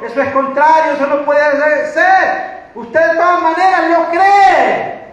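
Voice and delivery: forceful, projected pulpit voice; emphatic, insistent sermon delivery; preaching. Real, not acted. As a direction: drive each phrase home to the congregation.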